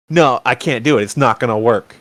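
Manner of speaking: mildly dejected imitation of Dad; bummed out. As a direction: turn it down with a touch of disappointment. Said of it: "he's all bummed out".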